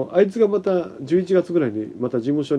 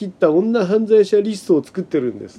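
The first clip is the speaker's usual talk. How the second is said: gleeful, delighted, high, bright voice; 5 semitones higher, 4 dB louder than usual. Retelling how the boss happily told him about a list, retelling someone speaking gleefully. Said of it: "嬉しそうに".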